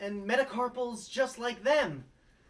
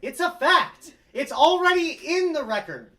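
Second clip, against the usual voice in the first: higher, louder, heated protest; indignant shout; 5 semitones higher, 12 dB louder than usual. Acted. Detective snaps back at the reporter, indignant. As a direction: insist hotly, pushing back.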